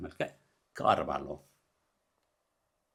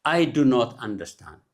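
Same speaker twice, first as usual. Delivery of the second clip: very slow, careful word-by-word model; teacher's deliberate corrected sentence; slow correction; much slower than usual. Shown as a demonstration. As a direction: slowly set out "do not" as separate words. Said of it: "ጌጋ".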